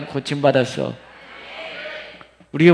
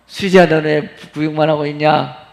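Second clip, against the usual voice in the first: usual speaking voice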